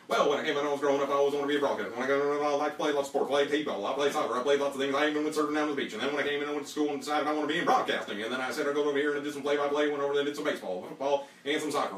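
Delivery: rapid, loud auctioneer pitch; fast-talking auctioneer. Pretend. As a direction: sell yourself like an auction. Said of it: "how would your auctioneer experience do".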